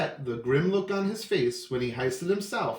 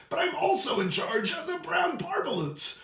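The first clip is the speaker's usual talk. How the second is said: Lorax voice; 6 semitones higher than usual. Acted. Lorax voice continues.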